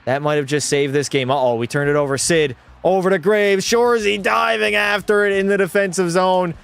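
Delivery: broadcaster calling end-to-end play. Acted. Streamer as announcer calling a save and turnover. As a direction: follow the puck up ice.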